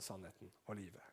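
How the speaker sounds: breathed, almost silent; whisper. Acted. Pastor ending the sermon in a reverent whisper. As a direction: let it fall to a whisper.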